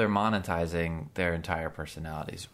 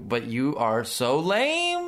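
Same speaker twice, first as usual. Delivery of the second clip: mock parental disdain; 4 semitones higher, 4 dB louder, slower than usual. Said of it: "I'm just gonna be like".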